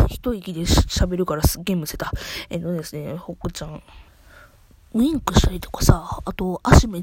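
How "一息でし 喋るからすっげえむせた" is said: choking. Real, not acted.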